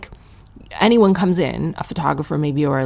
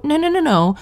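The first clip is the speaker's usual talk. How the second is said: emphatic no; 11 semitones higher, 3 dB louder than usual. Real, not acted. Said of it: "comic rejects slogan emphatically".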